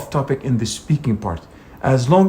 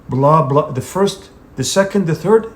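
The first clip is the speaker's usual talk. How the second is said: "the first", "the second" lifted, then "the third" falling; list intonation. Shown as a demonstration. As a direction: read it as a list, rising on each item and dropping on "third". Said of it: "your intonation goes down".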